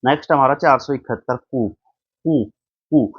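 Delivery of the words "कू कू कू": COUP said as "koo", the P in कूप left silent. Shown as a demonstration. Teacher showing students the word coup, कूप with a silent P. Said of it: "इसमें P silent होता है".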